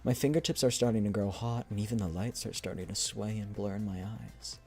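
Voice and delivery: soft, measured story reading; unhurried dramatic reading, trailing softly at the end; message read aloud. Acted. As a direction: read the letter out gently and evenly. Reads a character's message aloud.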